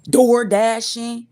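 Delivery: stretched out slowly, loud and high; proud shout. Real, not acted. Proud shout of her legal job.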